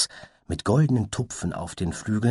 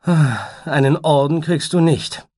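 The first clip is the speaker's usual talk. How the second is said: higher, louder teasing babble; high playful butterfly; 9 semitones higher, 8 dB louder than usual. Acted. Butterfly teases the unicorn in a high giddy voice. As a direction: toss off the phrases giddily.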